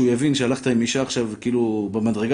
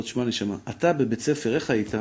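put-on softer, hushed voice, coaxing the boy; gentle fatherly talk; 2 semitones lower, 5 dB quieter than usual. Father quietly asking his unruly son, gentle. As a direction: ask it quietly like a patient dad.

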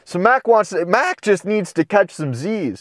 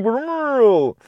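menacing growl; 7 semitones higher than usual. Acted. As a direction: growl it as a warning to back off. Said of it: "in a more menacing, growling voice".

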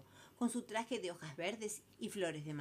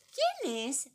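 louder, higher annoyed call; irritated call; 9 semitones higher, 8 dB louder than usual. Acted. Daughter calling through the door, annoyed. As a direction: call it out, bothered at work. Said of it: "preguntó fastidiada".

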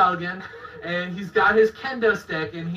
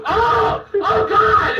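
much higher, louder mock yelp of pain; mock pained cry; 11 semitones higher, 5 dB louder, much slower than usual. Hit in the head with a kendo stick, mock yelp of pain. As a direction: yelp like you just got hit on the head. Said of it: "I'm like".

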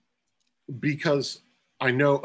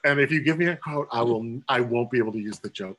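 emphatic refusal; 2 semitones higher, 5 dB louder, faster than usual. Retold or imitated. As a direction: wave off the offer, loud and laughing. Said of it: "we're both like".

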